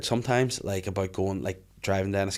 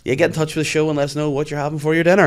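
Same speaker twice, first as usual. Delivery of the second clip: mock radio presenter; 7 semitones higher, 8 dB louder, faster than usual. Mocks his own radio show patter.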